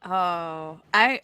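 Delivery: ordinary delivery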